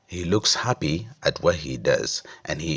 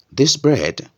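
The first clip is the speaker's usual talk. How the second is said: higher and louder mock surprise; questioning shopkeeper; 10 semitones higher, 6 dB louder than usual. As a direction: ask it back as if checking. Shopkeeper checks which bread.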